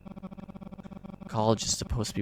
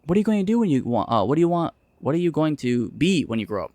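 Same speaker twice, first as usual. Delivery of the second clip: mocking nag; 5 semitones higher, 4 dB louder than usual. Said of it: "I'm so tired of hearing".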